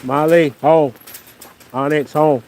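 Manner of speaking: loud call across the yard; calling dogs. Real, not acted. Calling dogs back home.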